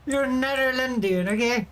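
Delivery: laughing through you're Netherlandian; half crying with laughter. Real, not acted. Laughing at his own rant to the chat, through the words.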